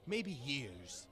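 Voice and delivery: booming jolly pirate captain addressing the crew; rally the crew like a proud captain. Acted. Captain rallies his crew at the feast, jolly and booming.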